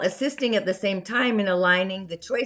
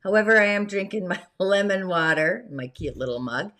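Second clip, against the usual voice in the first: hoarse, scratchy voice; raspy voice. Real, not acted. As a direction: speak through a raspy throat. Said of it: "I've got a raspy voice today".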